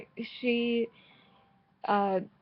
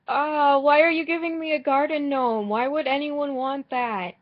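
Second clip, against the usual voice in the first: higher, louder incredulous why; exasperated at a villager's odd present; baffled disbelief; 5 semitones higher, 5 dB louder than usual. Real, not acted. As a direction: gape at the silly gift. Handed an unwanted garden gnome.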